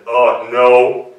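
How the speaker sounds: low, loud bear groan of dismay. Acted. Bear caught hiding behind the bush, in a low bear voice. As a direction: drop into a big bear voice. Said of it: "a surprisingly bear-like voice said".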